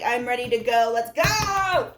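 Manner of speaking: a lion itching to start, eager and pumped; excited lion yell. Acted. Tarot reader voicing an eager lion, excited yell. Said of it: "I said I wouldn't yell. I know, I'm getting excited".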